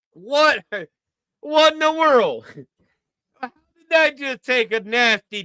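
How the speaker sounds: high-pitched incredulous outburst. Real, not acted. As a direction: blurt it out in stunned disbelief. Shocked reaction to played clip.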